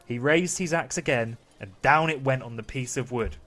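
measured bedtime-story narration; storytelling to children. Acted. Dad reading Pinocchio to the kids, storytelling voice. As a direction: read it out with deliberate pauses.

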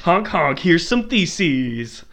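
slow, goofy proclamation; drawn-out silly announcer voice; silly clown. Pretend. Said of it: "catchphrase as Luther".

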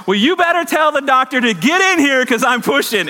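high-pitched mock yell; retold yell. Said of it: "she yells at the top of her lungs".

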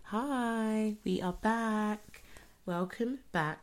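hushed, quiet greeting; whispering on the phone. Real, not acted. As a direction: keep it hushed, like a late-night call. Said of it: "Why are you whispering?".

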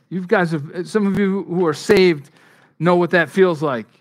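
a loud, urgent appeal; preaching loud. Acted. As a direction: lean in hard on the congregation.

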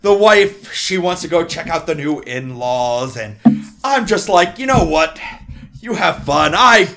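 loud, hearty dwarf rambling; jolly dwarf. Acted. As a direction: play the cheery old dwarf chatting. GM holds dwarf character.

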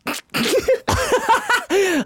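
long high laugh; real laughing fit; laughter. Real, not acted. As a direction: burst into high, helpless laughter. Laughing at co-host.

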